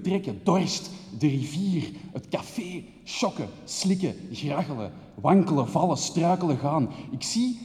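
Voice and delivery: rushed, breathless stream of words, fading to a hush at the end; poetic outpouring. Acted. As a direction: pour it all out like a fevered poem. Dichterlijke woordenstroom na "uit mijn hart. (opgejaagde, dichterlijke woordenstroom die wegsterft)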